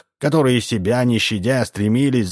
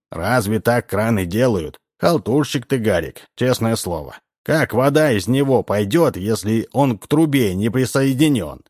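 indignant; 3 semitones higher than usual. Acted. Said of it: "возмущённым голосом".

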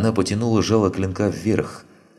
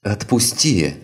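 high strained cry in pain; anguished cry; 5 semitones higher, slower than usual. Acted. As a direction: cry out as ribs crack. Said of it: "с надрывом закричала девушка". (надрывный крик)

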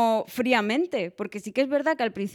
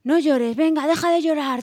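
higher, louder, a hint of a scolding mother; stern mother; 6 semitones higher, 4 dB louder than usual. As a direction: brush the crying away briskly. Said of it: "mi madre, por ejemplo, siempre me decía".

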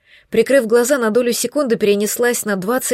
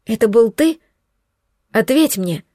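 angry crying. Acted. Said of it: "кричала я".

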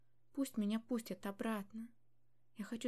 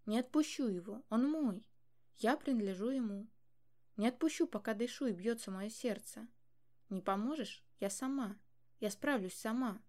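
loud defiant vow; 5 dB louder than usual. Acted. Daughter vows defiantly.

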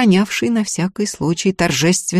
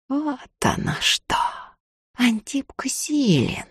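a soft, triumphant aside; gloating mutter; 8 semitones higher, 6 dB quieter, slower than usual. A narrator's reading. The sorcerer gloats to himself over the bowl, soft muttering. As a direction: savor the secret under your breath.

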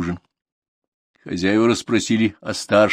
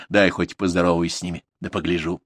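smiling. Acted. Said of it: "с улыбкой остановил её Корытин".

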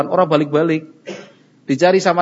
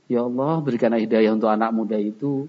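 calm prayer; 5 semitones lower, 4 dB quieter than usual. Acted. Models a calm prayer instead of anger.

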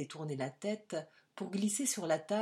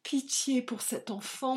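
higher, crying out to God; anguished cry; 8 semitones higher, 3 dB louder than usual. A narrator's reading. Vanier alone, crying out to God in anguish. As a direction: cry out the first plea. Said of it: "Vanier s'écria".

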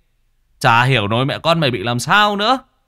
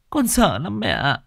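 higher, pleading repeat; fear rising; 8 semitones higher than usual. Acted. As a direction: let the fear break through, pitched up. Frightened daughter confides in mother.

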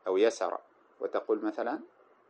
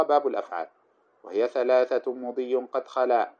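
verse recitation. Acted. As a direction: recite the verse in a measured chant. Reciting the grammar poem.

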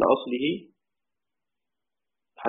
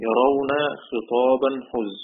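drawn-out chanted verse line; slow poem recitation; much slower than usual. Shown as a demonstration. Teacher reciting a Shatibi-style verse to students, slow and measured. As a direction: recite the verse slowly and evenly. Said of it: "قال رحمه الله".

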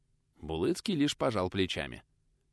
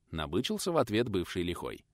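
plain reading voice

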